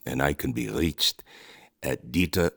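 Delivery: loud, hammed-up self-promotion; shouted plug. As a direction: yell it like a cheesy ad. Shouting his web address.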